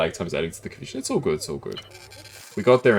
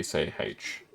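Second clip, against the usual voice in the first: whispered letter; 3 semitones lower, 9 dB quieter than usual. Shown as a demonstration. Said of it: "as in the normal say".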